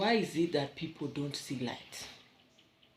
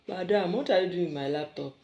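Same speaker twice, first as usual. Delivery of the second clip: angry scolding; 3 semitones higher, 9 dB louder, faster than usual. Real, not acted. Mother scolding her little girl over the laptop, loud and cross. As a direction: catch her red-handed and demand answers.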